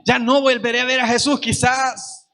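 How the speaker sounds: hint of a desperate beggar, building; voicing Bartimeo. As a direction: preach as the blind man who won't stop asking. Preacher speaks as blind Bartimeo.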